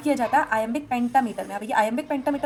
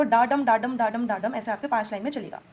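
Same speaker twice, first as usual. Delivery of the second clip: steady meter demo on "डाडम"; iambic rhythm. Shown as a demonstration. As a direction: chant "डाडम" as repeated weak-strong beats. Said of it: "unstressed पहले आएगा डा".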